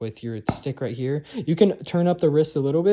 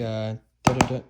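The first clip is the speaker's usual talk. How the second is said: sung drum rhythm; 3 semitones lower than usual. Shown as a demonstration. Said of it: "you were going".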